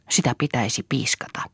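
ordinary delivery, nothing marked

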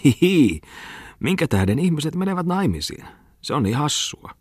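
very high, whiny tittering voice; shrill plaintive giggling. A narrator's reading. Muttinen mocking marriage before laughing friends, shrill and giggly. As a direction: titter and whine in a high squeal. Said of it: "valittavalla kimeällä äänellä".

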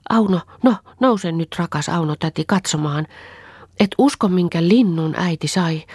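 put-on high, eager child's voice bubbling over with joy; a small girl hopping about, dying to show off the bird; excited little girl. Little Anni urges her aunt to get up and look, excited high child. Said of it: "hyppi äitin luona ja sanoi".

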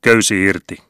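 captain calling loud from the bridge; shouted order. A narrator's reading. Captain on the bridge shouting to the crew: loud call. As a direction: shout it to cast off. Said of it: "nosti vielä kerran hattuaan ja huusi".

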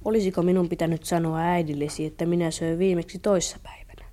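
a whispered worried question. Acted. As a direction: whisper it shyly. Whispered confession.

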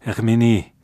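a sudden burst of delight; eager exclamation. Acted. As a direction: Herminie exclaimed with eager joy. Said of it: "huudahti Paul innoissaan".

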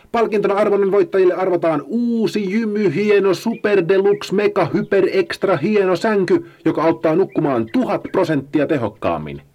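high, loud blare through a megaphone; megaphone bellow. Acted. Paula bellows into the megaphone at the sloths. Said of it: "kailotti siihen".

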